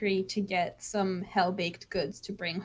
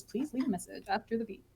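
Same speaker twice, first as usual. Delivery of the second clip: muffled voicemail; 6 dB quieter, faster than usual. Acted. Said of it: "a muffled voice that goes".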